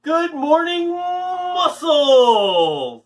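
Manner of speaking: high, bright shouted greeting; excited shout. Acted. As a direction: call out to the kids, beaming. Kids fitness host greeting viewers.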